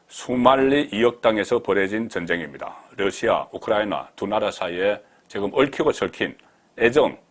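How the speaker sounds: reading a written statement out firmly; emphatic read-aloud. Acted. Reads politician's post aloud.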